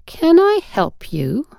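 frosty, high and clipped; icy terse challenge. A narrator's reading. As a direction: freeze them out with a short question. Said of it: "a terse".

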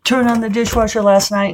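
hammed-up whiny complaint; whining. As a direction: whine the complaint like a sulky kid. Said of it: "I was whining about it".

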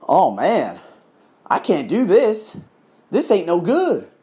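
a light down-south drawl, slowed and drawn out; down south accent. Retold or imitated. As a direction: lament it with a hint of Southern accent. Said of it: "Started talking like that down south accent".

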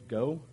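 "go" set apart and punched; stress on GO. Shown as a demonstration. Pastor showing how he used to read it, stress on "go". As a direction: land on "go" as the key word. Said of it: "put some of the emphasis on the wrong words".

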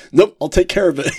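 hammed-up unbothered driver; casual bus driver. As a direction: toss it off like a laid-back stoner. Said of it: "He says".

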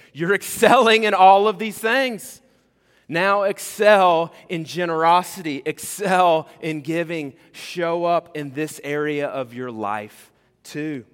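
slow, loud pulpit exhortation; fervent preaching. Acted. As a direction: drive Paul's call home to the room. Preaching Paul's charge at full force.

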